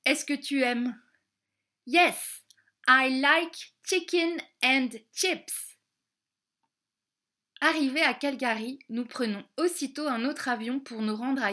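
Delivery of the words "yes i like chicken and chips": eager answer. Acted. Child answers eagerly in English.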